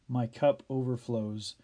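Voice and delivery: measured, reverent reading of the psalm; scripture recitation. Acted. Pastor reciting the psalm to his listeners, reverent reading. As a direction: read it as a closing prayer.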